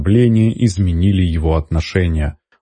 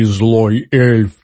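pleading goblin; 3 semitones higher than usual. A narrator's reading. Goblin repeats the plea. (гоблин настойчиво, громче на «эльф»)

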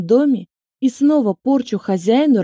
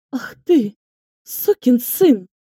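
slow, loud furious curse; 4 semitones higher, 3 dB louder, slower than usual. A narrator's reading. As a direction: spit the insult out. Inga curses Egor.

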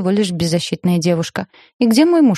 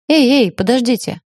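mild, higher-pitched narrated cry; крик; 5 semitones higher, 3 dB louder than usual. A narrator's reading. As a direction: call out to stop them, without full shouting. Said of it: "закричала я". (негромкий окрик, повыше)

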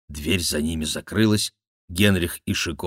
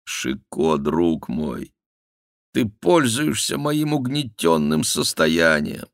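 sad king; slower than usual. Acted. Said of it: "печально сказал король".

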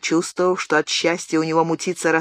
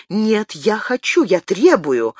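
insistent; 3 dB louder, slower than usual. Acted. Diana insists Gabriel share the secret. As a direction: dig in and demand it. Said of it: "настаивала Диана".

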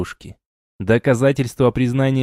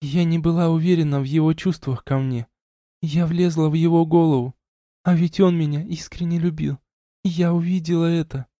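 lightly voiced woman, higher and subdued; raised voice, muted confession; confessing young woman; 6 semitones higher than usual. A narrator's reading. Elina confessing.

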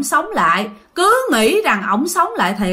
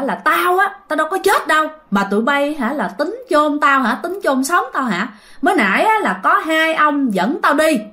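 higher, forceful retold rant; forceful scolding; 5 semitones higher than usual. Grandpa telling his children he wasn't dead, forceful. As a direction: bark it out like a revived old man. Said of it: "mà ông nói rất mạnh nha".

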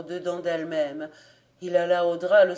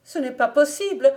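loud, higher cry of disbelief; shrieking denial; 7 semitones higher, 8 dB louder than usual. A narrator's reading. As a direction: howl it out, refusing the death. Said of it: "hurla par trois fois".

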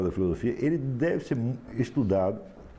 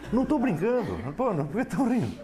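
high-pitched insistence through rising laughter; amused protest; 11 semitones higher than usual. Real, not acted. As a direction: protest much higher, breaking toward a laugh. Protests as the listeners start laughing. (protesto divertido, em tom agudo)

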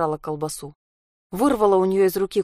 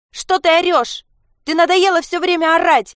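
much higher, loud furious yell; yelling loudly; 11 semitones higher, 6 dB louder than usual. Acted. Sasha screams back at her raging mother. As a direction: scream it till your throat scrapes. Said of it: "закричала она так громко".

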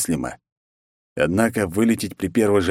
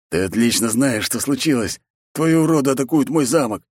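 angry reply; 6 semitones higher than usual. Acted. Zaruba snaps back about his castle, mildly angry. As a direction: accuse him through anger.

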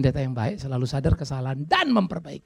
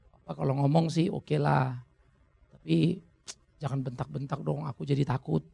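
put-on much softer, a small scared child's request; timid child plea; 5 dB quieter than usual. Child asking papa not to shout, timid soft plea. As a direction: shrink your voice like a frightened kid.

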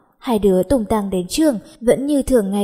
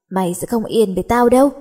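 threatening; faster than usual. Acted. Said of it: "Đe dọa xong".

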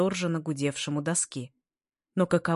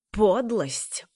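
higher, louder outraged yelp on Подлость; shrieking beside himself; 4 semitones higher, 4 dB louder than usual. A narrator's reading. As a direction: shriek Подлость as if losing control. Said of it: "взвизгнул вне себя Нед".

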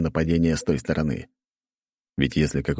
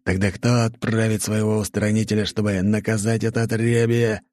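roaring king; 5 semitones higher than usual. Acted. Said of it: "громко заревел король".

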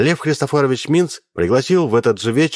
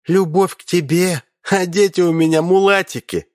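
higher, amused mocking reply; laughing; 9 semitones higher than usual. Alina laughing off Misha's hopes of love, lightly amused. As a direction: brush him off with a laugh. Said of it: "рассмеялась Алина".

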